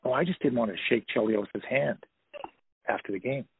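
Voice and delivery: quietly calm, shrugging it off. Retold or imitated. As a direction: say it as if nothing happened. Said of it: "he said in a real calm voice".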